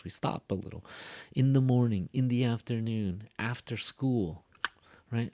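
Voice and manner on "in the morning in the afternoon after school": "In the morning, in the afternoon, after school" with short pauses; phrased thought groups. Shown as a demonstration. Teacher showing students the pauses between thought groups. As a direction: break each phrase off with a pause. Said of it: "We have a little pause".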